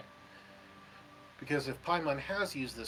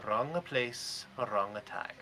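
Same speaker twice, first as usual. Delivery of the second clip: slow deadpan delivery; 3 dB quieter, slower than usual. Acted. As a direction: say it flat and slow. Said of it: "a very deadpan voice go".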